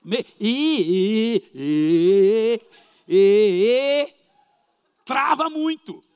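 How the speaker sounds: loud mock stammer of a nervous father; stuttering father. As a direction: act out the father jamming on every sound. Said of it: "ele é muito gago".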